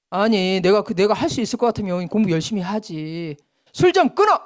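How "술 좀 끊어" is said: higher nagging demand. Retold or imitated. Nagger telling a drinker to quit, higher nagging. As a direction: nag someone to quit drinking. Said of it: "잔소리하는 사람".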